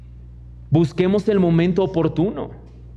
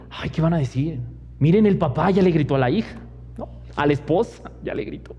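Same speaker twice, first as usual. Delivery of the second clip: lightly voiced gossiping onlooker; a hint of nosy bystanders whispering; faintly caricatured busybody tone; mock gossip voice; faster than usual. Mocking what onlookers would say.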